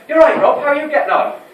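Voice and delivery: bright-pitched, smiling welcome; smiling greeting. Acted. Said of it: "they just smiled and said".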